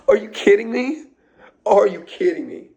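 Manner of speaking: high laughing are you kidding me; laughing disbelief. Real, not acted. Vlogger laughing at his own great advice, high and delighted.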